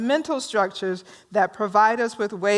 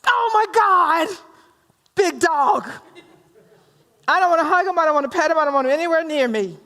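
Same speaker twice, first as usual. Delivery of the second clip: mock fearful; 4 semitones higher than usual. Teacher imitating a person frightened of the big dog, mock squeal. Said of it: "Some people will say".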